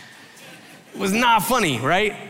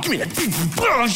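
grumpy grab; 6 semitones higher, slower than usual. Retold or imitated. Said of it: "I'm like".

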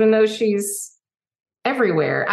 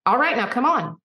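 higher, lightly voiced coaxing Dolly; brisk encouragement; 6 semitones higher than usual. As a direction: chivvy kindly, no meanness. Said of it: "her being like".

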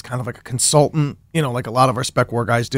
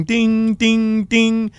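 imitated door chime; 7 semitones higher, much slower than usual. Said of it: "the dinging of the car door".

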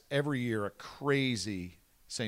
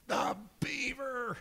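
announcer build-up; 12 semitones higher, 4 dB quieter, slower than usual. Retold or imitated. Retelling announcing guest to crowd.

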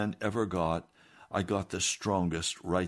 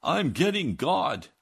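higher, louder and slow; yelled; 7 semitones higher, 4 dB louder, slower than usual. Retold or imitated. Jim yelling from the wagon to his cousin, slow and raised. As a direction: call back from the wagon. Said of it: "Jim yelled out".

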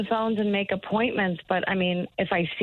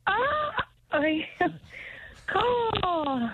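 hesitant bird call; 8 semitones higher, much slower than usual. Real, not acted. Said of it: "that sounded more like a crow".

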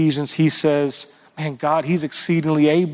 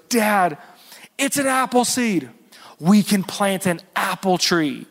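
put-on excited child; 3 semitones higher than usual. Child tells dad excitedly.

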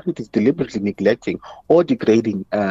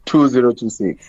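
slow, careful digits; slowly. Shown as a demonstration. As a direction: read each digit clearly. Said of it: "let me repeat slowly".

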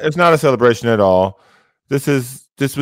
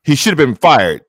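distorted mic. Real, not acted. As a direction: voice breaking up through a hot mic. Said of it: "it's distorted".

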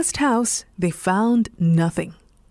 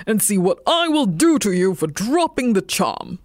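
mild growl. A narrator's reading. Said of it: "he growled".

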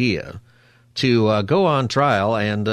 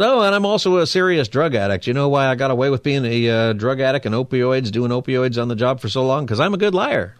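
mock boastful defendant; 3 semitones higher than usual. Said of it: "And they said".

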